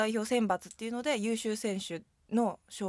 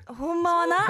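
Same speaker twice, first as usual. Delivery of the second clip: playful Osaka-ben, raised and louder; Osaka dialect; 7 semitones higher, 5 dB louder, slower than usual. Shown as a demonstration. Guest teased about her Osaka-ben answers in playful Osaka dialect. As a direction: put on Osaka dialect with a laugh. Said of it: "実は大阪弁でしょ".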